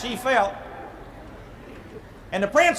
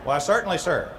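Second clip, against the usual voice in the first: low, soft, genteel "why, certainly, sir"; gracious coy acceptance, played lightly; prim lady; 6 semitones lower, 5 dB quieter than usual. Cinderella accepts dance.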